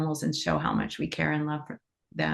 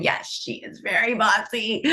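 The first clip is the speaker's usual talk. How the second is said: imitating friends' amused, higher-pitched confirmation; amused agreement; 5 semitones higher than usual. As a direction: tease yourself in the voice of knowing friends. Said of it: "like, kinda laughing, going".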